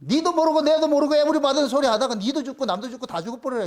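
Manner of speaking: mock furious rant; imitated anger. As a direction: voice an angry God cursing them in one run. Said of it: "얼마나 화가 났을 것 같으면은".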